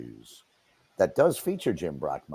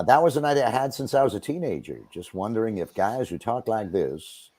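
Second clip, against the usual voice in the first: lightly voiced broadcaster, a little faster; Brockmire announcer voice. Talk-show host asked him, he answers as a mild Brockmire. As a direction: answer like an old-school play-by-play man. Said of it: "I'll answer as Brockmire".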